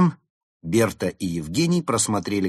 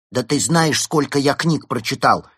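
loud, higher indignant boast; exclaiming; 5 semitones higher, 6 dB louder than usual. A narrator's reading. Penguin boasting of his reading to the fox, exclaiming. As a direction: exclaim it in offended pride. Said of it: "воскликнул Пингвин".

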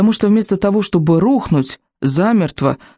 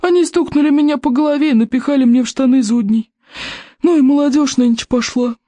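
furious outburst; 11 semitones higher than usual. A narrator's reading. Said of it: "голос от ярости сделался громче". (в ярости, высоко и медленно)

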